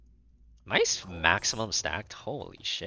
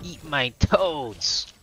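hammed catchphrase; 8 semitones higher, 4 dB louder, much slower than usual.

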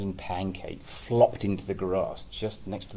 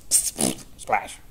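splash effect; 5 semitones lower, 3 dB louder than usual. A narrator's reading. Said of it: "there's some sound effects in here".

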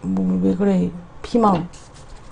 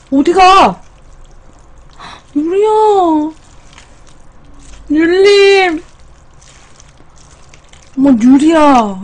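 calling out loudly; 7 semitones higher, 4 dB louder than usual. Real, not acted. Calling after runaway pet.

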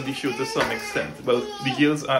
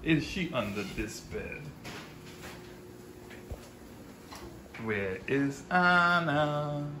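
playful hushed seeking; 8 dB quieter, slower than usual. Pretend. Hide and seek with child.

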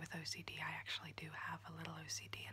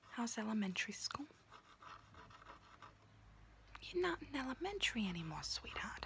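whispering auntie roleplay; 3 semitones higher than usual. Acted. Auntie whispering to her niece while doing her nails, in a confiding unvoiced whisper. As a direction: whisper close and chatty like a kooky aunt doing your nails.

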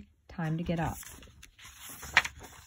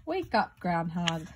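calling out; slower than usual. Acted. Title call to sleeping groundhog.

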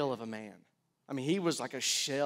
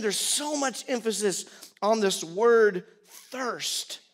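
ordinary talk

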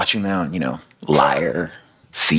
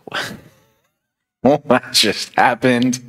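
much higher, slow disbelieving what; stunned crowd; 8 semitones higher, much slower than usual. Retold or imitated. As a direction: gasp it out like a shocked bystander. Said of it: "people are like".

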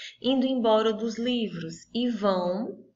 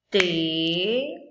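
Tesoura said slowly, mouth opening on each syllable; syllables counted aloud; 3 semitones lower, slower than usual. Shown as a demonstration. Teacher showing kids how to count syllables, slow. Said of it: "Também abri a boca pra falar três vezes".

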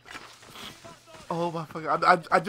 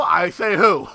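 mock tough; 3 semitones lower, 5 dB louder, slower than usual. Real, not acted. Punchline of the lesson.

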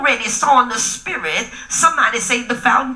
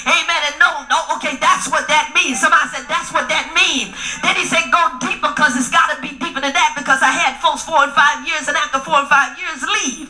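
preaching at full force; 3 semitones higher than usual. Acted. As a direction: whoop it up to the congregation. Preaching climax with music.

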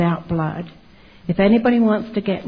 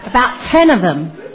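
laughing; 3 semitones higher than usual. Real, not acted. Woman boasting to interviewer about converts, laughing. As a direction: chuckle proudly as you say it.

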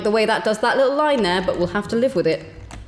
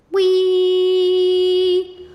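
high, loud gleeful squeals; excited wee; 10 semitones higher, 3 dB louder, much slower than usual. Pretend. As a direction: cheer them on like a ride. Chickens running off in game.

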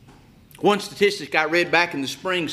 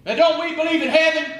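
challenging question; 10 semitones higher, 6 dB louder than usual. Real, not acted. Preacher challenging congregation.

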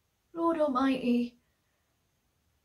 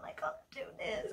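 tearful whisper; 8 dB quieter than usual. Real, not acted. Crying while reading aloud.

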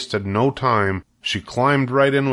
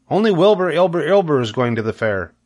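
higher goose voice, repeating the word ends; snapping goose; 6 semitones higher, faster than usual. A narrator's reading. Mother goose snapping at her begging children. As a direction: scold the goslings like a fussy goose. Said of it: "snapped the goose".

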